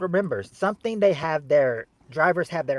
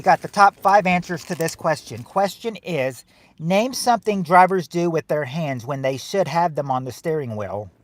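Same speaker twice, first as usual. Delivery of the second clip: Bill Cosby impression; 5 dB louder than usual. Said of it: "that's my Bill Cosby impression".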